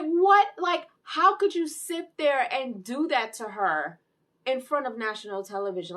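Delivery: high, loud indignant protest; outraged disbelief. Retold or imitated. Reviewer reacts to what he did to her, loud outrage. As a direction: burst out loud, then stretch the scolding. Acts own outrage at Homelander.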